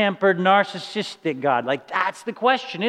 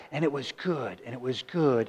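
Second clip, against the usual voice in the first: soft refrain; 7 semitones lower, 9 dB quieter than usual. Acted. Repeating God's refrain softly.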